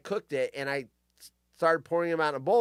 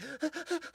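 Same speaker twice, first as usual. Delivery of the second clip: quick high intake of breath; sharp gasp; 11 semitones higher, 10 dB quieter than usual. Shown as a demonstration. Showing what an orgasm breath sounds like, sharp gasp.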